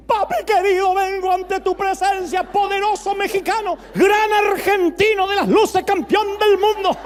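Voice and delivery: put-on a kid flattering his dad like a pompous prayer; child in churchy prayer voice. Preacher imagining a child addressing his father like God, high and loud. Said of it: "tu hijo te habla como le hablas a Dios".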